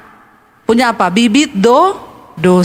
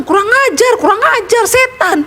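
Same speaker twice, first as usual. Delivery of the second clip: high squawky parrot insult; parrot cursing; 8 semitones higher than usual. Acted. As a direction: screech the curses like a rude parrot. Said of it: "dia bilang". (beo memaki dengan suara tinggi)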